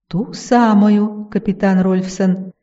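slow, silky, insinuating rustle; sly honeyed whisper. Acted. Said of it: "вкрадчиво прошелестела тварь".

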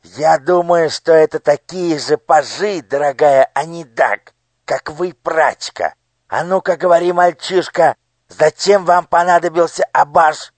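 loud, high, threatening demand; a cruel minister bullying a child; menacing interrogation. Acted. (угрожающий допрос)

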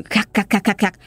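mock cackle in short, choppy bursts; imitated creepy cackle. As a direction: imitate a possessed man's eerie staccato laugh. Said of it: "ổng cười ghê lắm". (nhại tiếng cười khắc khắc ghê rợn)

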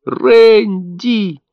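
the name torn out in horror; horrified cry. A narrator's reading. Mother sees her baby's body in the corner, shocked high cry.

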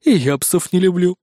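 a hint of a bristling tomcat; mildly prickly cat agreeing. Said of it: "ощетинился циклоп". (слегка ощетинившись)

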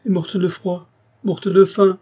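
distraught, pitch far up; anguished outcry. A narrator's reading. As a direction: wail it in horror and grief. Pitou grieving over the death.

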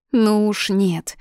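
curt refusal. Acted. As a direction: cut him off flatly. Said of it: "отрезала я". (резко отрезать)

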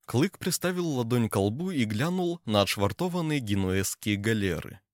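plain reading voice

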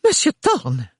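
mild distaste on the name; name that hurts. A narrator's reading. The mother addressing Thorne with a hint of distaste. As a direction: say the name as if it hurt your teeth. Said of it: "comme s'il lui faisait mal aux dents".

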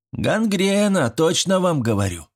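put-on high, confident boyish diagnosis; know-it-all. A narrator's reading. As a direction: declare it as an expert. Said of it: "выдал умную мысль Швец".

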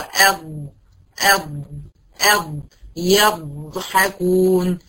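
"أب" with a long pressed ض; ḍād with pressure. Shown as a demonstration. A teacher drills her class on the pressed ḍād. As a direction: press the tongue and hold the ض in "أب". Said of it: "عايزة الضغطة دي أحس بيها إيه؟ جوه".

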